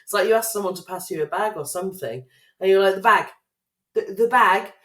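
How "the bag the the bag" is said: over-clear, louder, talking down to a shopkeeper; patronising slow talk. Retold or imitated. Friend mocking her patronising voice to a shop worker. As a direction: spell it out as if they can't understand English. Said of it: "saying it in such a, a way".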